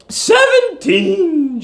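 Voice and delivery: high, drawn-out delighted cry; a landlady's gleeful slow exclamation; cried out. Acted. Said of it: "she cried".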